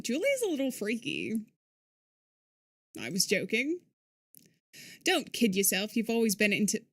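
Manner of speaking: put-on British accent, understated. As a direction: read the dialogue in amateur British. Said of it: "this is my British accent".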